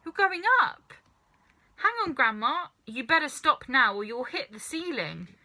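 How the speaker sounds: high, loud startled calling; boy shouting as grandma grows; alarmed shout. A narrator's reading. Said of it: "George gave a jump and shouted".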